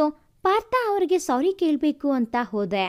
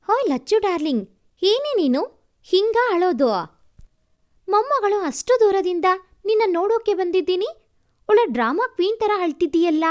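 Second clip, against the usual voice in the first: playful teasing; 4 semitones higher, 3 dB louder than usual. Acted. Teasing grandma, playful scolding.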